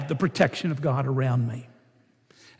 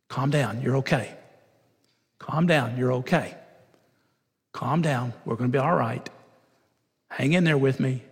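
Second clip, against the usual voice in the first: calming a hurt player; 3 semitones lower than usual. Retold or imitated. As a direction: talk him down gently, calm and steady. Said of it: "he began to say this to the young man".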